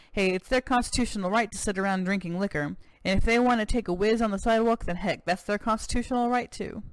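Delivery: lightly voiced American cowboy governor, proud; a touch of boastful Texan governor.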